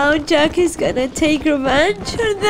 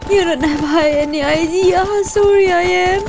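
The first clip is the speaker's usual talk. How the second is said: crying; 3 semitones higher than usual. Real, not acted. Grieving for a dead character.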